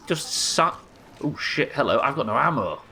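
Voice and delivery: high, rushed panic; flustered gamer under attack; panicking gamer. Real, not acted. Enemy attacks, no ammo.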